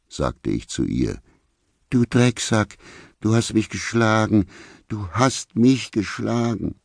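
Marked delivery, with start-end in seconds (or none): 1.9-6.7 high-pitched hurt accusation, slowing on the repeat; mock wail of a wronged woman; tearful accusation. A narrator's reading. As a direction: accuse him in a high, upset voice. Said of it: "saß Vicky auf einem Stuhl und heulte".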